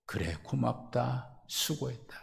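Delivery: quiet, slow, dying to a whisper; fading praise. Acted. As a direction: let the thanks fade to almost nothing. (점점 작아져 속삭임으로 사라지는 칭찬)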